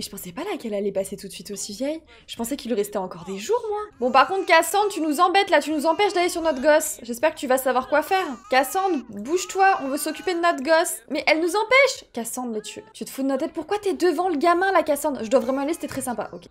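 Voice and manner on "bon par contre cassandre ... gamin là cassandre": mock scolding. Scolding Sim blocking the way.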